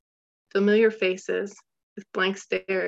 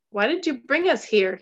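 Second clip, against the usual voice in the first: mild mock scream; 4 semitones higher than usual. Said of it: "he screamed it as loud as he could".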